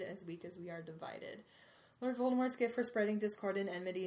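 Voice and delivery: steady, solemn read of a speech; reading aloud. Acted. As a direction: read it like a headmaster's address. Reads Dumbledore's speech aloud.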